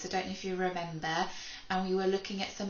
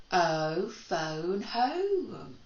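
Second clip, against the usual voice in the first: phonics rhyme; much slower than usual. Shown as a demonstration. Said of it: "So we say".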